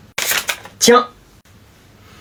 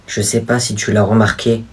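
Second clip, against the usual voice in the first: cringey drama acting; 4 semitones lower than usual. Boy confessing his dangerous powers to his sister, soap-opera style. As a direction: overplay a tragic secret. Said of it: "le jeu d'acteur en frisson de gêne".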